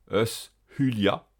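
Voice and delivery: "us hulia" with S then a breathed H; S plus aspirated H. Shown as a demonstration. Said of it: "S suivi de H aspiré". (« us hulia » avec H aspiré)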